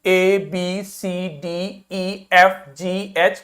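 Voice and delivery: each English letter name said separately, A to H; careful letter names. Shown as a demonstration. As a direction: model the alphabet A, B, C, D with clear gaps. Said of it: "इनको pronounce करना सही से सीखिए".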